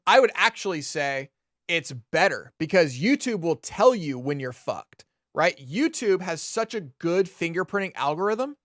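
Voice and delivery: usual speaking voice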